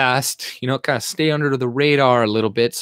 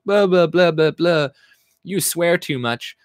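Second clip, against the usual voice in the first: mock complainer; 5 semitones higher than usual. Mocking a complaining video comment.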